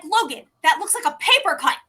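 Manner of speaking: high, loud, laughing protest; aunt laughing at Logan's tiny cut; laughing disbelief. Retold or imitated. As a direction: crack up while calling it a paper cut.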